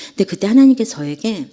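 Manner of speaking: ordinary talk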